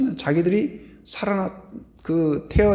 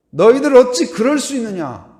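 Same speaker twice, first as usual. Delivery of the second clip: mock rebuke; 7 semitones higher, 6 dB louder than usual. Imagined rebuke of disciples.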